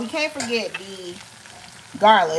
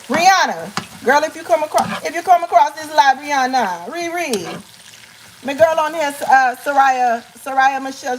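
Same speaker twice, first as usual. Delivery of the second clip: higher-pitched mock Bajan accent; put-on Barbadian accent; 3 semitones higher than usual. Calling out to a singer on the live, mock Barbadian accent. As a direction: appeal playfully in an imitated Barbadian accent. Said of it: "am I doing the accent right".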